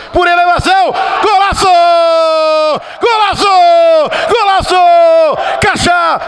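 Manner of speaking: high shouted goal call, long stretched golaço; explosive goal commentary. Real, not acted. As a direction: scream the goal, dragging out the vowels. Goal scored, commentator erupts.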